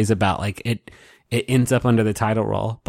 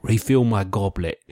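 lightly imitated British accent; thick British accent; 3 semitones lower than usual. Contestant asking Will for a refill, imitated thick British accent. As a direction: mimic a mock-British goblet order. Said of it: "a thick British accent".

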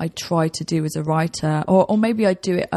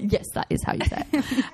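higher, laughing put-on certainty; laughing mock agreement; 6 semitones higher, 3 dB quieter than usual. Real, not acted. Guest jokingly claiming her pronunciation, laughing. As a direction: grin and overplay the confidence. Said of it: "is what every American thinks".

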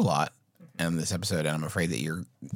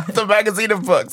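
high laughing line through the words; 12 semitones higher, 8 dB louder than usual. Real, not acted. Co-host amused at the easy magazine name, laughing high. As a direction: laugh out the answer, pitched up.

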